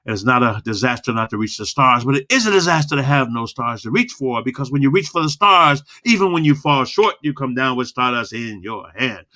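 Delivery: quick, steady, engaging speech read; a steady, engaging recited speech; low and fast. Shown as a demonstration. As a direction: roll it out, drawing them in. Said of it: "when you say low and fast".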